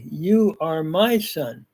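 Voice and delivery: slow, measured stress on "You are my son"; weighty, drawn-out "You are my son"; emphatic. Shown as a demonstration. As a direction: spell out "You are my son" slowly, leaning on the key words. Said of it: "Very emphatic here. It's sort of like".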